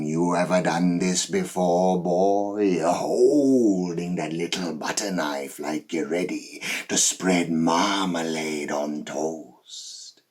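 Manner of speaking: mock him as a harmless amateur; taunting challenge. Killer to the guy holding a knife, loud taunting challenge.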